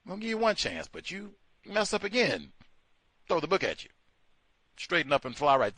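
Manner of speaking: lightly hammed-up judge voice; mock lenient judge. Imagining a British judge, a mock lenient sentencing. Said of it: "they could have, you like".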